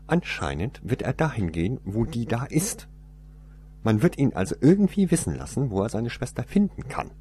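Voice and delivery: cold, matter-of-fact woman; stern woman. Acted. Woman explains plan.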